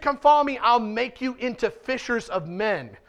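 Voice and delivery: emphatic proclamation. Shown as a demonstration. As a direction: proclaim it as Jesus' true call. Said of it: "He said".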